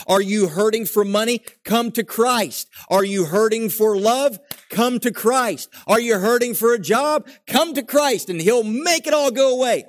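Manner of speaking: preacher parody that builds to a loud, high pitch; mocking preacher. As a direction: ham up a prosperity preacher's sales pitch, rising each time. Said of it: "So many preachers today try to put out the gospel and say".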